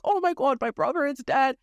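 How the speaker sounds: high, overdramatic wail of grief; mock despair. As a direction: ham up the tragic sister. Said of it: "And she's like".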